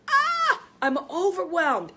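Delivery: high, loud overwhelmed wail; loud mock cry of overwhelm; mock panicked cry. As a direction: ham up a panicked outburst. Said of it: "when you scream and you say".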